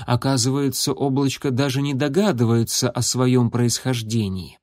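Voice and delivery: ordinary delivery, nothing marked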